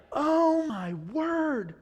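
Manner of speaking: very slow, high-pitched mock shock; terrified astonishment. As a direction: draw it out, aghast at what you saw. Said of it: "You would probably be so terrified".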